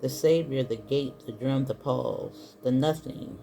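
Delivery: measured read from a book, pausing between phrases; reading aloud. Acted. Tarot reader reading a book passage to viewers, measured read-aloud. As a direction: read it out item by item, with pauses.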